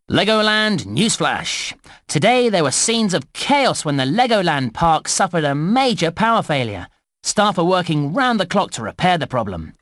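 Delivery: news announcer delivery with punched key words; newsflash read. Acted. Newsreader telling visitors about a park power failure, newsflash read. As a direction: report it like a breaking park bulletin.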